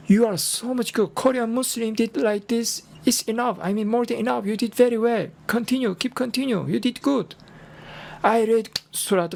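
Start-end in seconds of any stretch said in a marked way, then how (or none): 0.1-7.4 higher-pitched, eager praise; lightly animated cheering-on; retold encouragement. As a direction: imitate a supportive teacher urging a learner on. Retold imam cheering on the learner.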